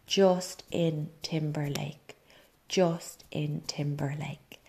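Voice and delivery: "Justin Timberlake" drawn out slowly, word by word; slow dawning realization. Retold or imitated. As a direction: spell out the hidden message in "Justin Timberlake", slowly. Realizing the name's hidden message.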